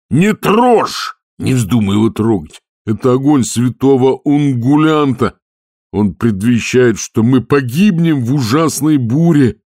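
high, loud panicked warning; terrified shout. A narrator's reading. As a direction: scream it out as a doom prophecy. Terrified skipper warns Detritus. (шкипер в ужасе кричит троллю не трогать огонь)

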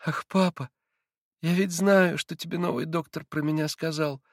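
put-on child's exclamation. A narrator's reading. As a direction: cry out knowingly to his father. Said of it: "воскликнул Илюша". (воскликнул, по-детски)

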